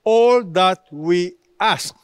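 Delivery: "All" stressed, each word slow and weighty; slow down and hammer "All that we ask"; slow and emphatic. Shown as a demonstration. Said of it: "but he continued".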